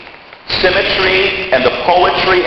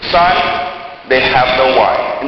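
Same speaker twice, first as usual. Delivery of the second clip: simple; slower than usual. Retold or imitated. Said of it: "She just simply says".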